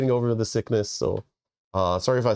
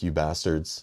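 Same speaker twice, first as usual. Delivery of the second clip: exasperated; 6 semitones lower, 4 dB quieter, slower than usual. Retold or imitated. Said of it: "I'm like".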